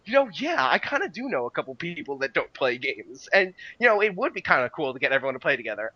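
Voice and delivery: mock getting won over, pitch jumping up; mildly retold excitement. Podcaster reliving a reaction to the sales pitch, mildly excited. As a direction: lightly act out being swept up by a pitch. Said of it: "I'm getting so excited".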